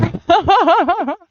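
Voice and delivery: high, loud burst of laughter; long, high, pulsing laugh. Real, not acted. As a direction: burst out laughing at full volume. Bursts out laughing after the shock.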